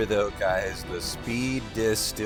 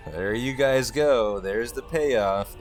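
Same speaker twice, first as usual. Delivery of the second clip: slow, louder proud announcement; speedrunner showman reveal; 3 semitones higher, 5 dB louder, slower than usual. Real, not acted. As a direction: present the payoff slowly and proudly. Revealing PB splits to chat.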